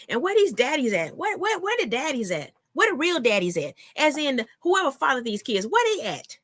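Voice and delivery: high-pitched indignant demand; pissed off. Real, not acted. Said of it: "That's what pisses me off".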